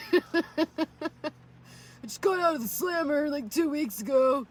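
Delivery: lightly put-on bar pickup voice; lesbian voice. Imagining her pickup lines at a lesbian bar, lightly put-on. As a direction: play a tough ex-con at a bar. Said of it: "that voice would actually work".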